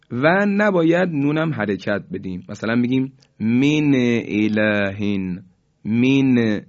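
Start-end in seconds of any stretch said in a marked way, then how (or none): 3.4-5.4 من الهین with a vowel moved onto the nun, mine elahin; wrong voweled nun. Shown as a demonstration. Teacher demonstrating a mistake, nun given a vowel. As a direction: give the nun a vowel, min-e, as the wrong example. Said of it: "اینم صحیح نیست".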